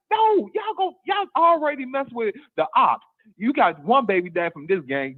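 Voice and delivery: high-pitched exasperated retort. Retold or imitated. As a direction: protest in a high, incredulous voice. Acting out own exasperated reply.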